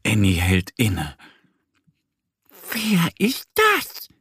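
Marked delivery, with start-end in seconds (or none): 2.7-4.1 higher, slow, hushed question; wary little duck. A narrator's reading. Annie facing the strange animal, slow and wary. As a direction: ask carefully, unsure. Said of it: "fragt sie".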